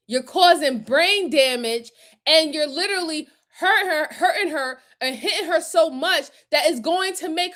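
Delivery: real tears through angry words; crying. Real, not acted. Grieving for the beaten seven-year-old, crying as she speaks. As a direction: talk through a sob. Breaks down over the girl.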